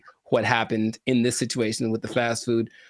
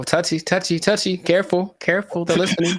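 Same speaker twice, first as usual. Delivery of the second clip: mock warning; 5 semitones higher than usual. Joking the government is listening.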